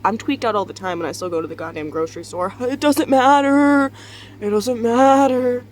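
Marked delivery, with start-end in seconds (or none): 2.6-5.6 slow, loud, laughing. Real, not acted. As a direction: laugh it off slowly.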